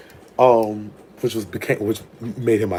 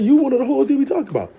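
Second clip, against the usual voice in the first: imitating him; 14 semitones higher, faster than usual. Voicing the other man.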